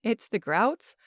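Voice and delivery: trembling, unsteady voice; shaky voice. Acted. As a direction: let the voice shake with fear. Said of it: "say in a shaky voice".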